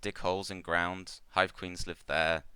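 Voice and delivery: lightly voiced insect-like trader in broken English; a gentle creature trader, halting and simple; Clicknid merchant. The GM voicing Ikmar to the adventurers, lightly halting.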